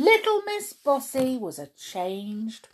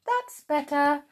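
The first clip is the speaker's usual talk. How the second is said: smiling; 9 semitones higher, 4 dB louder than usual. Acted. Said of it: "smiled Wilfred".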